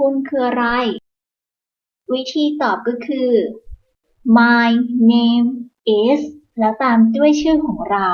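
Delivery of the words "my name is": "My" "name" "is" said apart; separate words. Shown as a demonstration. Teacher saying each word apart before linking them. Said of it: "name กับ is เชื่อมกัน".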